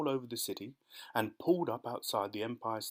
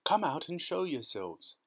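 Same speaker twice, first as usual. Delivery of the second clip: higher-pitched storyteller's shout; shouted order; 6 semitones higher than usual. A narrator's reading. Police chief orders the travellers out, raised calling voice. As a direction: call up to them, mildly forceful. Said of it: "shouted the chief of police".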